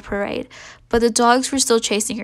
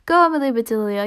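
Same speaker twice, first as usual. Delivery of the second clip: louder cheer, pitch steady; yelled; 4 dB louder than usual. Acted. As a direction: call it out like a friend cheering. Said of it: "yelled Joy".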